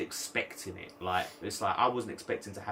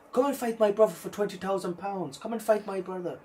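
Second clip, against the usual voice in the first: goading challenge; 8 semitones higher than usual. Retold or imitated. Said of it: "she goes to him".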